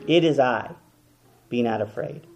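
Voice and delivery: soft, sinking reassurance; gentle comfort. Acted. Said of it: "How did he comfort".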